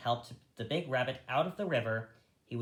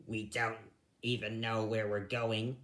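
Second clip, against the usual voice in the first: grumbled; 2 semitones lower than usual. Acted. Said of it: "he grumbled".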